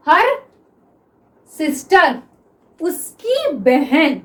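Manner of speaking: "उसकी बहन" said very slowly, stretched out; slow example. Shown as a demonstration. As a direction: spell out the example for the class. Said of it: "teacher gives the example". (उदाहरण धीरे-धीरे बोलना)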